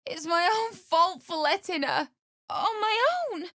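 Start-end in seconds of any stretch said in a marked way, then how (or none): 2.5-3.5 crying shout; tearful cry. Acted. Grieving wife blaming herself, crying. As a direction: break down on the words. Wife's grief.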